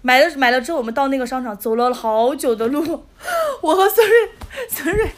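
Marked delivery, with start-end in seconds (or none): 3.3-5.1 giggling through the names; breaking into laughter mid-story; laughing. Real, not acted. Laughing while telling the story.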